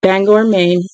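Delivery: steady read-aloud of a novel, calm and even; story narration. Acted. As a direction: read the book aloud to your viewers. Reads novel aloud to viewers.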